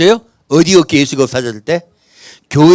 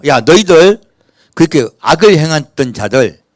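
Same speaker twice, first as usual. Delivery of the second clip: demanding tribes; 3 dB louder than usual. Acted. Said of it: "이렇게 해요".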